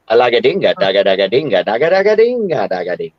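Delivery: joking mock-Spanish nonsense, rattled off; mock Spanish gibberish. Boasting to his friend that he can do Spanish too, mock gibberish. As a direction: show off a silly mock Spanish patter. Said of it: "I can do Spanish too".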